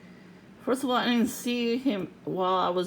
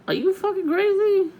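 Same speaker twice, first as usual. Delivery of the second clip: high, loud furious yell; shouted confrontation; 13 semitones higher, 8 dB louder than usual. Retold or imitated. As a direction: yell it at the man staring. Yelling at staring man.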